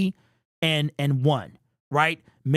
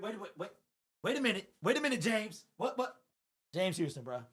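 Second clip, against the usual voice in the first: much softer, urgent repeated waits; hushed urgency; 13 dB quieter than usual. Real, not acted. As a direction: keep it down but can't contain it. Hushed reaction while watching game.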